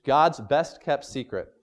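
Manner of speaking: slow, spaced-out title read; slow, weighty title. Shown as a demonstration. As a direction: lay out each word of the title slowly. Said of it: "That's the title for this morning's message".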